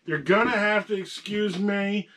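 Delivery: hoarse from a sore throat. Real, not acted. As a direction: speak through a painful sore throat. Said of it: "I've got a really bad sore throat right now".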